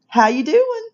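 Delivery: high, lilting "How you doing?"; Southern greeting. Shown as a demonstration. Greeting someone you know, high Southern lilt. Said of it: "is followed up with".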